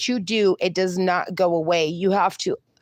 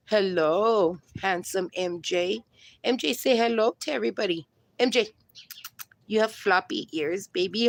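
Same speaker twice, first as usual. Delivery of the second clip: cooing at dog; 5 dB quieter than usual. Real, not acted. Cooing at her dog on camera.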